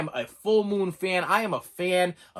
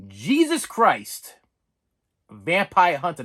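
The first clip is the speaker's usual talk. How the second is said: slow, louder weighty title read; dramatic title reveal; slow title announce; 4 dB louder, slower than usual. Shown as a demonstration. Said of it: "I said it".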